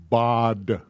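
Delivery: "Bod." said as one short syllable, bod; sounding out a word. Shown as a demonstration. Teacher sounds out a Hebrew nonsense word, slowly. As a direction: blend the letters into "Bod.". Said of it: "How would that get pronounced?".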